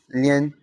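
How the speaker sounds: lien with an open "eh" vowel; lien, open-E version. Shown as a demonstration. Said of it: "and open E".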